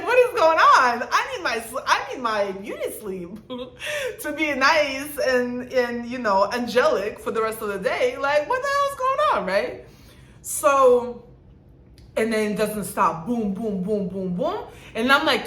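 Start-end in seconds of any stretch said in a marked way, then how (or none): 0.0-9.5 outraged wake-up. Retold or imitated. Retold outrage at early banging.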